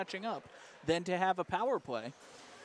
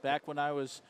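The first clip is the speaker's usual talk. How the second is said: lofty, self-important storyteller; snooty narrator voice; 4 semitones lower than usual. Pretend. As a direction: narrate like a pompous old chronicler. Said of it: "Why am I doing a snooty narrator voice?".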